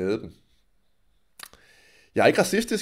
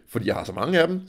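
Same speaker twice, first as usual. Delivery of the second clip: usual speaking voice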